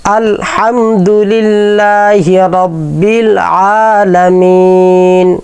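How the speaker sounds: measured tajweed chanting; slow Quran recitation. Shown as a demonstration. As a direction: recite slowly, each letter clear. Teacher recites Fatiha slowly.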